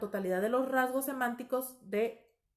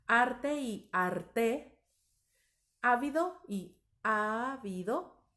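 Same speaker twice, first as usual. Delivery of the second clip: very slow contrast; much slower than usual. Shown as a demonstration. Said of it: "otros ejemplos de palabras parónimas".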